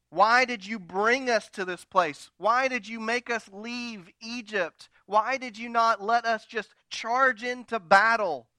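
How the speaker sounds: lightly acted complaint of the thirsty people; complaining. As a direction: whine it like a grumbling crowd. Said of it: "to complain".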